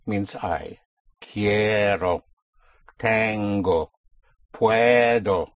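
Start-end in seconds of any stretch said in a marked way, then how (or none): 1.2-5.5 "Quiero, tengo, puedo" each stretched on the first syllable; push down, surface. Shown as a demonstration. Teacher modelling verbs for I, "Quiero, tengo, puedo" with long stressed first syllables. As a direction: lean long on KIE, TEN, PUE, then release onto O. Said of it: "After you push down, you come up on O".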